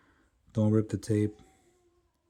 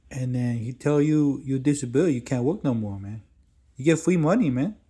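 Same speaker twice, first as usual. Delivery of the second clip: high, loud, eager hustler voice; pushy hustler dude; 4 semitones higher, 6 dB louder than usual. Retold or imitated. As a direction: lay on the street-hustler pitch, higher and louder. Stranger pitching disability scam.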